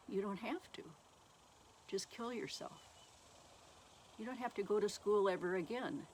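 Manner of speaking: mildly compassionate, coaxing inner voice; compassionate tempting voice. Retold or imitated. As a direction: gently talk them into it, as if it were kind. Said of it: "the voice was kind of compassionate".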